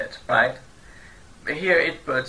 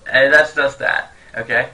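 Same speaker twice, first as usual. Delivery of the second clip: 1 indifferent eh; 6 dB louder than usual. Shown as a demonstration. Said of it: "the most fantastic one would be".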